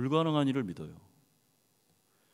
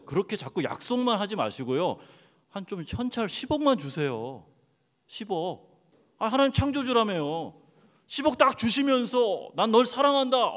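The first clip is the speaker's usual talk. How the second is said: mock greedy prayer; 2 semitones higher than usual. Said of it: "하나님 앞에 가서".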